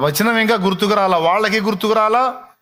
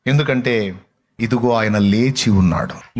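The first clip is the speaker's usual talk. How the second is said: solemn divine voice; 7 semitones lower than usual. Retold or imitated. Voices the Lord's reply.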